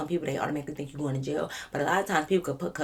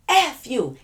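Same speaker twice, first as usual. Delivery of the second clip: louder, high-pitched snap; mock angry outburst; 8 semitones higher, 6 dB louder than usual. Drunk friend turns on the officer, high loud outburst.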